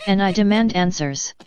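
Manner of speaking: a hint of a robotic Karen. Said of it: "My name is A I Karen".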